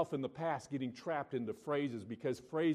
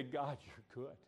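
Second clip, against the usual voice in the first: soft, hushed, sincere prayer to God; heartfelt prayer; 3 dB quieter than usual. Pretend. Preacher models a sincere prayer for the congregation, softly. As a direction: pray it quietly from the heart. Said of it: "He hears it when we say".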